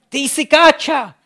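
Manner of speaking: Šibalka laughs at her own joke for the clam; laughing at own joke. Acted. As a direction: crack up as you deliver the punchline.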